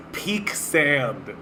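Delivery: whispered through laughter; barely voiced, laughing it out; breathless laugh. Real, not acted. Laughing to herself.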